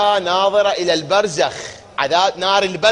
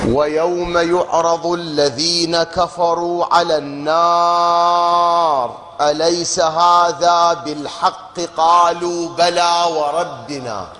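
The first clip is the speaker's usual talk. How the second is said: very slow, near-sung Quranic chanting; slow tajwid recitation; 3 semitones lower, much slower than usual. Acted. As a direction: stretch هذا out melodically. Reciting third verse.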